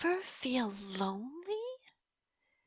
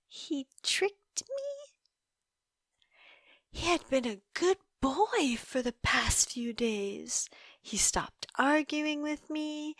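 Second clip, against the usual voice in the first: whisper. Acted. Whispering to the detective how he fooled her. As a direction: confide it in a breathy hush. Recalling her captive's trick.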